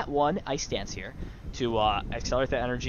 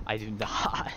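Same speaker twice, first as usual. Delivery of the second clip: whisper; slower than usual. Real, not acted. Admitting no wired connection.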